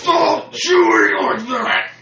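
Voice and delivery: mock exasperated yell.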